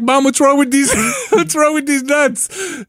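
imitating a son's high taunt; cheeky kid. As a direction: deliver it like a pleased child. Retold son repeats the punchline.

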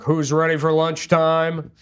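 lightly voiced booming radio host, slow; a touch of a slow announcer voice; schoolboy with a hint of radio host delivery. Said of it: "right-wing radio voice".

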